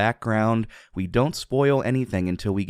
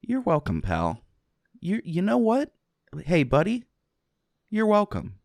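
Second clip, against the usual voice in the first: much higher, sing-song mock sweetness; playful; 11 semitones higher than usual. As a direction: coo it at a buddy, way up high.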